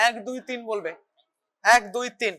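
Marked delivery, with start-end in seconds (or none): 1.6-2.3 one, two, three spaced out slowly; slow, deliberate এক, দুই, তিন for the patient to copy; slow counting demo. Shown as a demonstration. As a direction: count এক, দুই, তিন slowly and evenly, each number apart. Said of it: "এরকম ভাবে".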